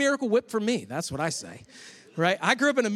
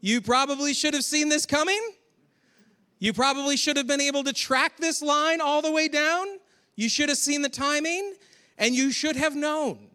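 a hint of a chiding Matthew; 8 semitones higher than usual. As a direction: gently scold the listener. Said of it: "it's almost like he's like".

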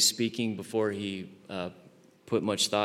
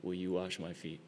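quiet emphatic refusal; 2 semitones lower, 6 dB quieter than usual. Acted. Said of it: "what he's saying here in the original language".

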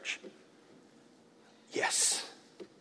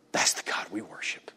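whispered, lower and soft; awed whisper; 7 semitones lower, 9 dB quieter than usual. Real, not acted. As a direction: hush it in reverence. Hushed awe after story.

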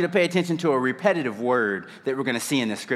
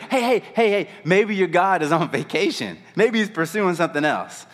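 cocky, high-pitched taunt; mocking; 4 semitones higher than usual. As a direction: needle them, full of yourself. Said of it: "he even starts mocking them".

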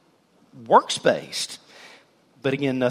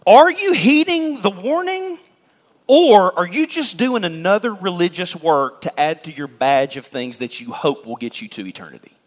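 angry John; 3 dB louder than usual. Shown as a demonstration. Preacher voicing John rebuking the crowd, angry. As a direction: hurl the question like an angry prophet. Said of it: "if John is angry, then this is how this text sounds".

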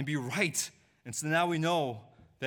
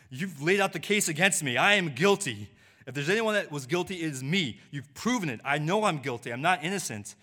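earnest confession; 3 semitones higher, 4 dB louder than usual. Acted. Confessing guilt to the judge.

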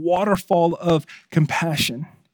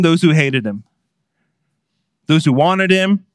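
louder, impassioned preaching voice; sermon preaching; 4 semitones higher, 5 dB louder than usual. Acted. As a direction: preach it out to the congregation. Pastor preaching the passage.

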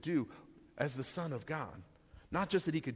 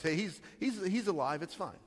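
higher, offhand mock reassurance; casual dismissal; 4 semitones higher than usual. Pastor voicing the wrong reading of the phrase, offhand. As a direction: shrug it off lightly. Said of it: "not the, the just intended meaning".

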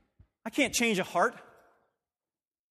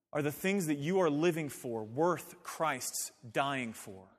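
quiet slow question; 6 semitones lower, 6 dB quieter, slower than usual. Shown as a demonstration. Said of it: "Let me say it another way".

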